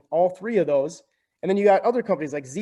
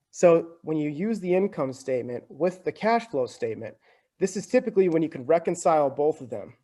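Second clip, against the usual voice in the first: hiccuping while talking; words broken by small hiccups. Real, not acted. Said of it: "I'm just hiccuping here".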